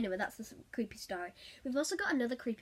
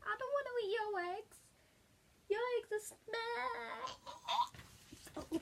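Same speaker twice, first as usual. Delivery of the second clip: mock creepy offer; 11 semitones higher, 6 dB quieter, faster than usual. Mocking the egg dude's offer.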